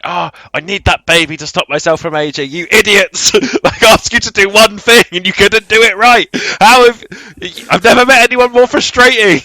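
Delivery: high-pitched exasperated villain tirade; angry rant. Retold or imitated. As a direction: act out a villain losing his rag, building in pitch. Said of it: "he's getting really angry".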